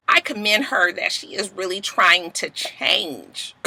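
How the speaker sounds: soft, slow, careful imitation; measured commendation. Mimi commending the hostess, measured and soft. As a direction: speak softly and deliberately, as if weighing it.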